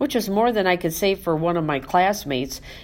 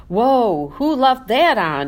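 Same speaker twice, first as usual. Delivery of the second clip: surprised exclaim; 3 semitones higher, 3 dB louder, slower than usual. Acted. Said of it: "he exclaimed".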